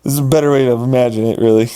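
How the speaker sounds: fast whispered aside. Real, not acted. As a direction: whisper it quickly to yourself. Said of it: "whispered aside".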